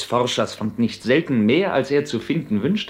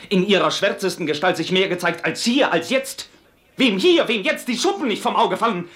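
heated rhetorical questions, pitched high; impassioned indictment; 5 semitones higher than usual. Acted. Templar denounces religious zeal to Nathan, impassioned. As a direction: rail against pious madness, climbing at the end.

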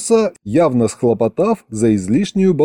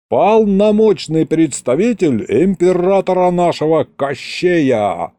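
lightly pompous proclamation, raised pitch; pompous envoy; 4 semitones higher than usual. Acted. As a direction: announce your rank grandly to the prince. (слегка напыщенно, как посол)

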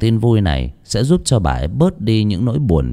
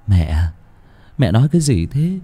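high, pleading son's voice; 9 semitones higher than usual. Acted. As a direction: beg your mother, rising higher. Son pleads with mother.

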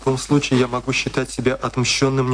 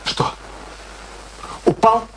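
alarmed; 9 semitones higher, slower than usual. Acted. Kurt hears Alice hopes the captain fell, startled question. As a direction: jump at the word.

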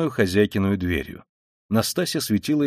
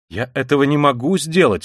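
loud, higher protest; offended cry; 4 semitones higher, 5 dB louder than usual. A narrator's reading. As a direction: cry out in hurt indignation. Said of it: "вскричала обиженная девушка". (обиженно, громко)

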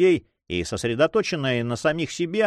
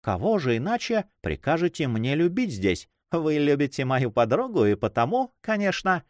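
a slightly higher, coquettish lady's voice; lightly voiced teasing lady; 3 semitones higher than usual. Young woman teases her friend's admirer, lightly coquettish. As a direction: lightly suggest a playful coquette.

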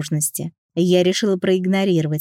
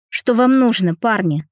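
raised, higher voice on "Что вам нужно"; louder challenge; 5 semitones higher, 4 dB louder than usual. Acted. Heroine confronting the bandits, louder and higher. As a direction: call out to the thugs to stall them. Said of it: "уже громче обратилась к парням".

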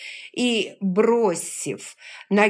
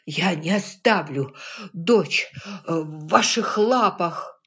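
defiant but breathless; wind knocked out; 3 dB louder than usual. Acted. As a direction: gasp between angry words. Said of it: "Выдох, вдох". (задыхаясь, но упрямо)

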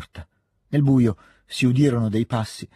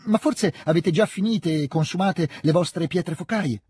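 slow, higher-pitched solicitous question; eager offer; 6 semitones higher than usual. A narrator's reading. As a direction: offer help keenly, drawing out the question. Petia offre premuroso le pietre focaie. (domanda premurosa, su tono alto)

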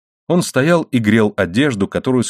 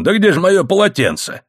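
mildly cried out, much higher pitch; a touch of a narrated shout; exclaimed cry; 9 semitones higher than usual. A narrator's reading. Husband calls for his towel, crying out mildly. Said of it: "крикнул он".

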